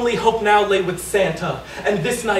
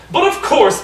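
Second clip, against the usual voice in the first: bellowing Santa; 4 semitones higher, 4 dB louder than usual. Acted. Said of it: "bellowed Santa".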